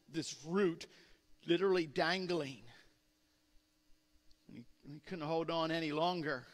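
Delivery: ordinary delivery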